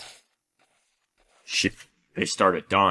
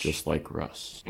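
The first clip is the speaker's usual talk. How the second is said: slow, soft deadpan jab; deadpan sarcastic; 2 semitones lower, 8 dB quieter, slower than usual. Pretend. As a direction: say it dry and quiet. Sarcastic refrain.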